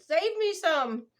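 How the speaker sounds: husband's request. Retold or imitated. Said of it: "Willis can't wait ... He said".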